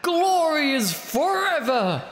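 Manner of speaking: lightly voiced ring announcer; boxing announcer. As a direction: hype up the fight like a ring MC. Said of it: "I get to do this boxing announcer voice".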